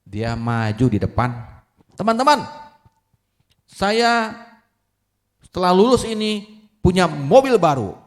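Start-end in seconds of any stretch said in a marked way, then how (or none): 1.9-7.9 high, loud public boast; proud announcement. Acted. Graduating son addresses classmates from the front, proud loud boast. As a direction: proclaim it to the crowd, pitched high.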